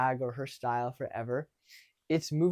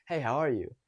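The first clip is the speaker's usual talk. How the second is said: easy, friendly greeting. Shown as a demonstration. Coach demonstrates approaching a girl, friendly. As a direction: greet with good energy. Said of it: "that's already coming in friendly".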